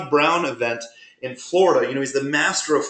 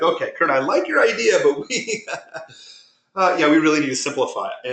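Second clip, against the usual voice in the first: imitating Nick. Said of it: "that's pretty much how Nick says it".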